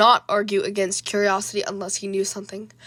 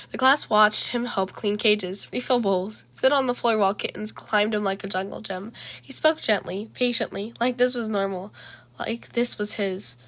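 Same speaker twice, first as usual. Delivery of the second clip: measured, even storytelling voice; narrator's steady read-aloud delivery; story narration. A narrator's reading. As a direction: read the chapter aloud, letting each phrase land.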